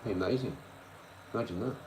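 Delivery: excited agreeing shout. Retold or imitated. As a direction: blurt it out happily. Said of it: "I'm like".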